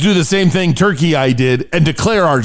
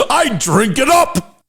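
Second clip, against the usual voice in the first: laughing; 5 semitones higher, slower than usual. Real, not acted. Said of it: "I can't stop laughing".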